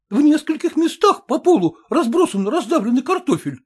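rising indignation; indignant student. A narrator's reading. Krotikov shows the others the potatoes, agitated.

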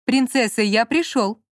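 muffled call from behind a door; calling through a door. Acted. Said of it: "раздался за дверью мужской голос".

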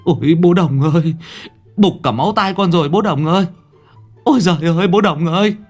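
high, loud deafened wail. Acted. Deafened worker wailing loudly at old Đồng. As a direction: cry out in pain to Đồng.

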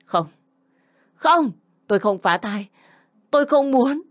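high-pitched cry of denial; anguished scream. Acted. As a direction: cry out in refusal, pitch leaping up. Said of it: "Tiếng gào thét của tôi". (gào thét đau đớn, giọng vút cao)

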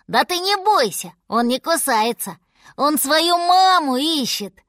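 put-on high, lively child voice; eager bear cub. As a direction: reassure mother in an excited cub voice.

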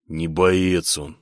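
gloomy. Acted. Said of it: "хмуро говорил кузнец".

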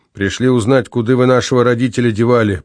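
ordinary delivery, nothing marked

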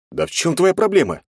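high, loud fed-up shout; exasperated outburst. A narrator's reading. Young man losing patience with the girl, exasperated shout. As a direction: lose patience and snap the question. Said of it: "не выдержал я".

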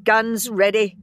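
snapped command. A narrator's reading. Marga ordering her soldiers, snapped and cold. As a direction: bark it coldly. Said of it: "she snapped bleakly".

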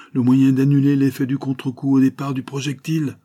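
high-pitched eager explanation; excited announcement. A narrator's reading. Inventor explains his breakthrough to his friend, excitedly.

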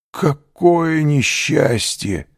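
a stunned, dismayed cry; dismayed lament. A narrator's reading. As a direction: mourn the setback. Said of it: "произнёс голос".

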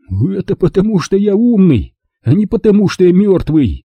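high dry comeback; deadpan jab; dry retort. Acted. John retorts to Lauren, high and dry.

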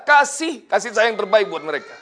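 real tears breaking into the words; preacher crying as he pleads for orphans. Real, not acted. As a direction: let the voice crack on kasih sayang. Preacher moved by the story.

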